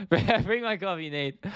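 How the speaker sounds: high, slow, badly faked Irish accent; terrible Irish accent. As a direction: do a laughably bad Irish accent. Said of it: "the worst Irish accent ever".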